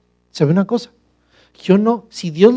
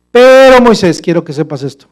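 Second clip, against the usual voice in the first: God warning; 9 dB louder than usual. Acted. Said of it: "Dios le dijo".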